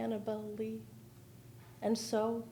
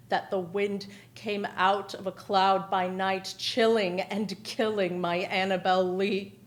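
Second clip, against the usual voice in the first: impassioned reading; 7 dB louder than usual. Acted. Grieving climax of poem.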